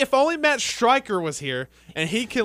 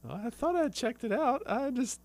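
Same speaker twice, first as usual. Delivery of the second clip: playing Emma; 5 semitones higher than usual. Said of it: "I want Tyler to play Emma".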